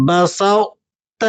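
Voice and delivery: بسطت drawn out very slowly, the emphatic ta quality kept before ta; بسطت with itbaq kept, very slow; careful recitation. Shown as a demonstration. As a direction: stretch بسطت slowly, keeping the heavy ط colour. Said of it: "وہ کس طرح سے؟".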